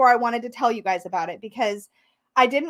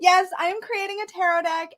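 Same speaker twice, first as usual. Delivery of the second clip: excited; 6 semitones higher than usual. Real, not acted. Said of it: "beside myself".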